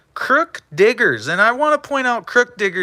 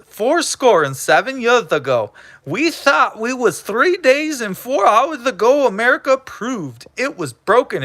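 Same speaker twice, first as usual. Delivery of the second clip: mock speech; 3 semitones higher than usual.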